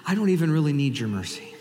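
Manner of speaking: a hint of self-satisfied sneer; smug. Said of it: "but he says smugly".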